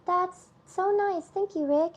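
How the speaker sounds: slow, high grateful thanks; touched. Real, not acted. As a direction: savour the thanks. Touched by chat gift.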